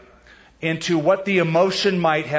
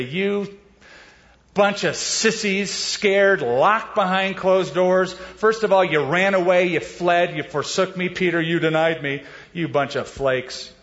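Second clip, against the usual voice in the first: mock rebuke; 3 semitones higher than usual. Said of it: "There's no rebuke in Jesus' voice".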